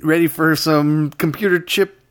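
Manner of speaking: sped-up helium chipmunk talk. Pretend. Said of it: "let's get out of our chipmunk voices".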